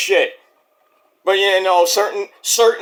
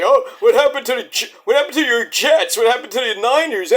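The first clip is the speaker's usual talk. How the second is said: teasing relatives; 4 semitones higher than usual. Retold or imitated. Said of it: "they say".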